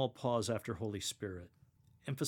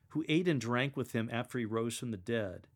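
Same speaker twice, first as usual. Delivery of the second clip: passionate proclaim. Shown as a demonstration. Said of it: "proclaim that last line with passion and immediacy".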